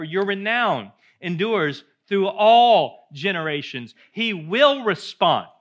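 loud, high, building proclamation; triumphant preacher's climax, slow on the big words; preaching at full force. Acted. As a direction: hammer each line home to the congregation. Closing preached declaration.

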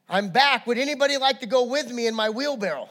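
a touch of the stage announcer; great showman. Acted. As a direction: call to the crowd with an invitation. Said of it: "He was a great showman".

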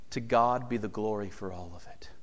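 whispered praise. Acted. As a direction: breathe it out as a whisper. Whispered doxology.

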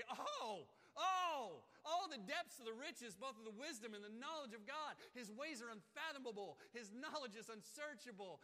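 loud, high, bursting with awe; overwhelmed praise. Pretend. Preacher acting out overwhelming praise before God. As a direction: let the wonder burst out. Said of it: "can't contain it anymore".

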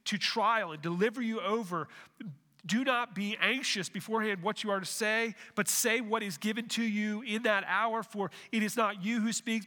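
measured, solemn Bible reading; scripture reading. Acted. Preacher reading scripture aloud to church, measured and solemn. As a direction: read the passage out to the congregation.

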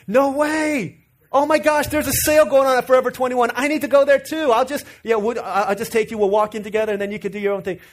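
high, loud, delighted mom; eager mom voice. Retold or imitated. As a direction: play the overeager mom jumping at the chance.

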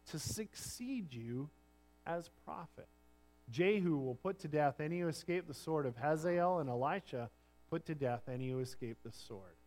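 measured, solemn Bible reading to the congregation; scripture reading. Acted. Pastor reading Elijah's story to the church, solemn reading. Reads Elijah passage aloud.

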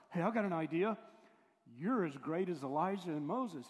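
loud, mock-eager pitch of an idea; eager blurting. Peter pitching his idea to Jesus, loud and eager. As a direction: burst out with a big idea.

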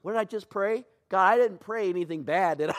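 mock-anxious self-check, laughing; half-joking panic; laughing worry. Preacher mid-prayer, mock-anxious laughing worry. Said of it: "I'm like".

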